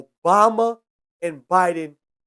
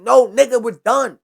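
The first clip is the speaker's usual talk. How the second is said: mock firm Trump; 3 semitones higher, 6 dB louder than usual. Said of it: "Trump was like".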